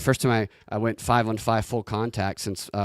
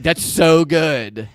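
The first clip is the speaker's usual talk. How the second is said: put-on impressed girls; 4 semitones higher, 6 dB louder, much slower than usual. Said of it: "they'd be like".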